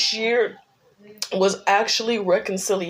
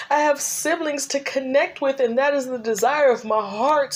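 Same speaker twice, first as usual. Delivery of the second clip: tearful forgiveness; 4 semitones higher than usual. Retold or imitated. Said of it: "And I was like".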